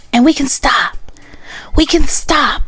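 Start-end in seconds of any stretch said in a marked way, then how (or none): 1.8-2.6 unvoiced whispered aside. Real, not acted. Telling viewers to drop it, whispered.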